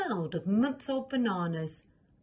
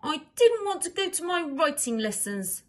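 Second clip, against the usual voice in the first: bratty princess; 8 semitones higher, 4 dB louder than usual. Acted. Princess excuses herself.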